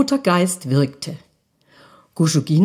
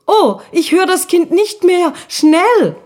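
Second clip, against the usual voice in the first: higher, louder alarmed little ghost; higher, louder Guschuk urging his sister to run; urgent call; 11 semitones higher, 4 dB louder than usual. Acted. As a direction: hurry him along in a panic. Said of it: "rief Guschuk".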